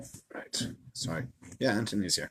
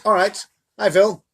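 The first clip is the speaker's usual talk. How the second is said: casual Moshe; 7 semitones higher, 4 dB louder than usual. Acted. Moshe's casual reply acted.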